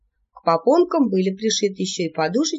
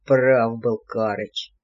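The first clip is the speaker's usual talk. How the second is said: very low, slow grim line; tragic verdict; 9 semitones lower, much slower than usual. A narrator's reading. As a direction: conclude it tragically. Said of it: "трагически заключил чёрт". (трагически, медленно)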